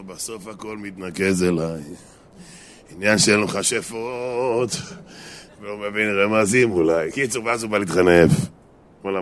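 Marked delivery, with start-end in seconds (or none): 0.0-7.1 slow, drawn-out private musing; mock self-pitying ponder, taken slowly; talking to himself. Husband alone in the room, brooding to himself. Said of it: "יושב בחדר ואומר לעצמו".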